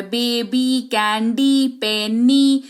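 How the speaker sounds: "बेबी, कैंडी, पेनी", each ending on a held "ee"; final Y as ee. Shown as a demonstration. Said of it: "उच्चारण ई के तौर पर".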